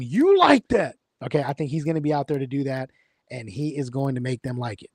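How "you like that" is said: excited high shout of the catchphrase; Kirk Cousins shout. Retold or imitated. Quarterback hyping the crowd after a win, loud excited shout. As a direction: yell it like a pumped-up quarterback. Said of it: "Kirk Cousins is gonna be out there scream".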